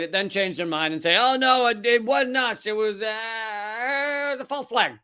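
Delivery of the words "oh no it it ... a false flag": mock backpedaling. Host mimics officials changing their story, mock flustered denial. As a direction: play a culprit fumbling for an excuse.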